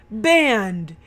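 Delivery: lightly hammed-up dad decree; imitated dad declaring. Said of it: "then the dad says".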